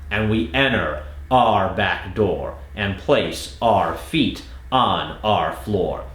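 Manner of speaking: slow, each our said as R; slow drill. Shown as a demonstration. Coach drilling the second part, slow. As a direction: drag out our as a single R. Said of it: "when you're doing that drill".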